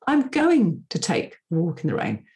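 going punched, the rest falling; stress on going. Shown as a demonstration. Podcaster shows how stress changes meaning, stress on going. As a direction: put the weight on going. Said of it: "I'm putting a different intonation on different words".

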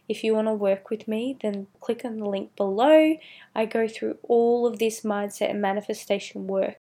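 hoarse, strained throat; pushing through a raspy voice; voice giving out. Real, not acted. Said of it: "Sorry, I'm dying".

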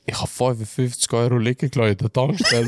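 breathy laugh into words; laughing whisper. Real, not acted. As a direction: whisper it through giggles. Laughs while confessing. (flüsternd lachend)

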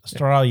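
Estrella with a trilled Spanish r; rolled r. Shown as a demonstration. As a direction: roll the r in Estrella. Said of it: "I'm gonna work on, uh, rolling my R's".

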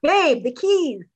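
high, loud yell building to a drawn-out shout; acted freak-out. Chris freaking out at his girlfriend over the keys, shouted freak-out. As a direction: act out mounting panic, ending in a full shout. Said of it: "Chris is starting to freak out".

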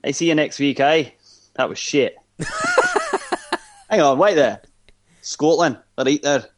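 put-on a loose, half-hearted Scottish accent for the outro; mock Scottish accent. Podcast host signs off in a mock Scottish accent. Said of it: "Just choose a different accent and do it".

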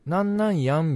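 demonstrated Kansai-like "やん" version; Kansai-like "やん" ending. Shown as a demonstration. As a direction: quote the phrase with a Kansai-style "やん". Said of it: "なんかちょっと関西弁っぽくない？".

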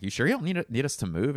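high anxious question; anxiously checking; concerned. Retold or imitated. Me asking the bus driver, high and worried. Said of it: "And I'm like".

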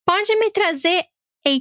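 paused word by word; slow and pointed. Retold or imitated. Rich client correcting office worker who misheard, slow and pointed. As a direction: spell out each word as if to someone slow. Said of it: "Pausadinho, assim, desse jeito".

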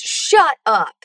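thrilled, punchy shut up; a mock excited outburst. Alexa hears thrilling news, excited shout. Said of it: "A Alexa fica super empolgada e diz".

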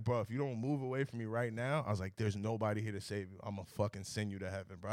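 low, soft menace, retold; quiet threat. Warning the kid outside with no bouncer around, quietly menacing. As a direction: threaten under control, dropped in pitch and volume.

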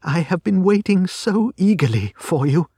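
joyful relief at seeing awaited help; eager cry. A narrator's reading. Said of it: "she cried, shaking hands with us warmly".

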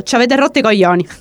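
Italian with a light Sicilian lilt; quick curse with a touch of Sicilian accent; slight Sicilian accent. Retold or imitated.

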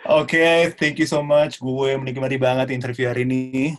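gaya anak Jaksel campur Inggris; Jaksel slang. Pretend. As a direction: ngomong ala anak Jaksel. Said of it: "coba dong ngomong kayak anak Jaksel dong". (logat anak Jaksel yang dibuat-buat)

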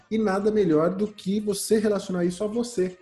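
normal talking voice

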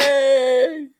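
high, loud mock cheer; excited cheer. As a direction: cheer with delight. Cheering at the news.

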